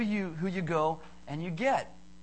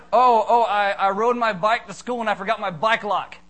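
loud, higher-pitched worked-up outburst; hammed-up dismay, starting on a loud "oh"; mock distress; 3 semitones higher, 9 dB louder than usual. Speaker mimics someone who forgot a bike lock, mock distress. Acting out a distressed forgetful rider.

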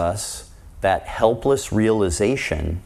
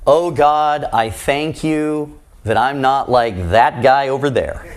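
smug Pharisee prayer; 3 semitones higher than usual. Acted.

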